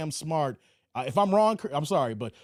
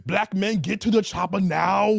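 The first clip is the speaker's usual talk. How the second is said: a deliberately bad, slightly louder Arnold voice; horrible Arnold Schwarzenegger; 4 dB louder than usual. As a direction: ham up a clumsy Terminator accent. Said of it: "my horrible Arnold Schwarzenegger impersonation".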